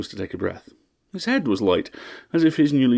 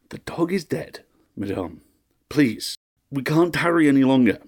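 forced composure; 5 semitones higher than usual. A narrator's reading. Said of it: "forced composure into his voice".

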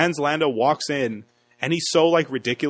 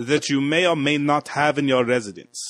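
mock German accent. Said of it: "they remind me of, like, Nazis".

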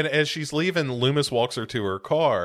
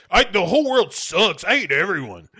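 put-on louder, higher sulky teen; angsty kid; 7 semitones higher, 4 dB louder than usual. Michael complaining about the world, higher and louder. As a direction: pout it out at the world.

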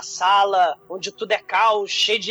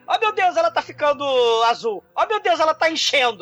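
much higher frantic father; panicked dad; 4 semitones higher than usual. Retold or imitated. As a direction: cry out as the worried dad. Panicked father voiced in story.

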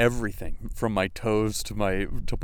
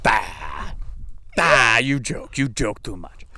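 imitating a Jewish Russian accent, scolding; mock Jewish Russian nurse, brushing off jokes; slower than usual. Nurse waving off the joking husband in a Jewish Russian accent. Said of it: "had this, like, Jewish Russian accent".

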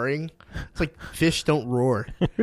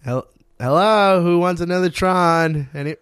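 mock hopeful pitch; 5 semitones higher, 3 dB louder than usual. Mocks asking who wants Tron.

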